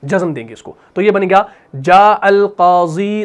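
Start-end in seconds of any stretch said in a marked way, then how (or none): 1.8-3.2 slow demo reading. Shown as a demonstration. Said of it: "اس کو ایسے ہی لکھا جائے گا".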